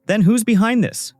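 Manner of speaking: narrated anger with a sharp lift in pitch; angry. A narrator's reading. Jay demands to know who is behind it, mildly angry. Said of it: "Jay gets angry and asks".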